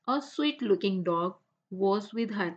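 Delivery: slow, careful read-aloud for the class. Shown as a demonstration. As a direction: read each word out slowly and clearly. Teacher reads English text aloud.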